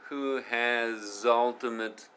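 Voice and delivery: slowly, "has ultimate" merged into "hazultimate"; fuse the z of "has" with "ultimate"; linked pronunciation. Shown as a demonstration. Teacher showing learners how the words merge. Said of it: "Zoltimateになってますね".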